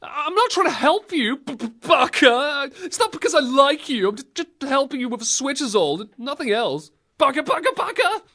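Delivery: huffy denial that rises to a squeal; tsundere. Pretend. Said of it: "like, a tsundere".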